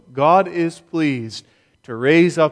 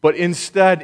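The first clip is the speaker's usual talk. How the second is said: emphatic paraphrase of Paul. Retold or imitated. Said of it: "What he is saying is".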